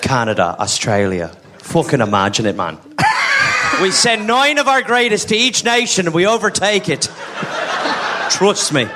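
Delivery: low, mock rowdy rebel boasting; rally the lads with a mock cocky plan; scheming Irish rebel. Rowdy Fenian plotting, voiced.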